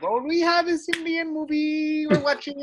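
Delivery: parent voice imitation. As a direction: play a patient Indian parent, slow. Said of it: "my parents were like".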